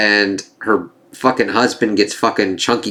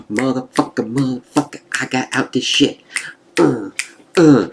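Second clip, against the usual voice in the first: mock celebration; 3 semitones higher than usual. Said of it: "her kind of celebratory thing".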